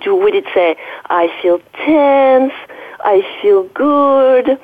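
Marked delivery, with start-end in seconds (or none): 1.1-4.6 slow, drawn-out words, slightly raised pitch; voice of the back. Acted. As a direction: lightly voice a body part reporting its feelings. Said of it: "if your back had a voice".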